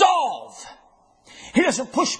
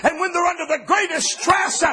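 preaching at full force; 4 semitones higher than usual. Acted. Preaching climax.

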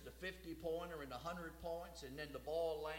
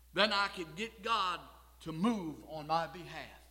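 raised, punchy pulpit delivery with pauses; emphatic preaching; 5 semitones higher, 12 dB louder than usual. Real, not acted. Preacher recalling his young mistaken idea of faith, emphatic preaching. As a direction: drive key words out loudly.

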